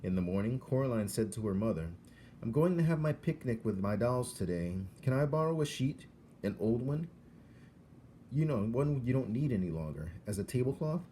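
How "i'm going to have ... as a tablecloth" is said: put-on higher, bright child's request; child asking. Coraline asking her mother for an old sheet, higher and eager. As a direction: ask sweetly like a young girl.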